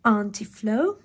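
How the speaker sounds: put-on thrilled child thanking her aunt; delighted cry. A narrator's reading. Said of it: "Ellie cried".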